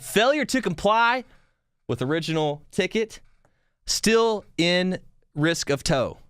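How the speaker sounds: high, slow, stiff notice-reading voice; slow, lofty mock reading of a tow warning; mock official notice. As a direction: read it out like a pompous official ticket. Reading the ticket's official wording.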